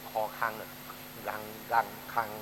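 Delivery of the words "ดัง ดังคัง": "ดัง ดังคัง" sounded from the throat. Shown as a demonstration. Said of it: "มันต้องออกเสียงลำคอแบบเนี้ยนะ".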